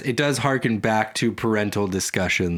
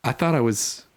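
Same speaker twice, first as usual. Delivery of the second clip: hurt Moses; 4 semitones higher than usual. Retold or imitated. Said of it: "if you're Moses".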